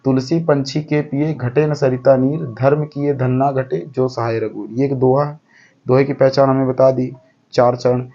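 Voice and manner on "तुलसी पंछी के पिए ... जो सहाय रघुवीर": poem recital. Shown as a demonstration. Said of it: "तो जैसे इसमें एक दिया हो क्या".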